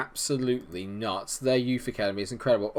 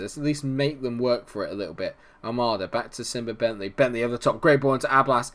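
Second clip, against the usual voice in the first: ordinary talk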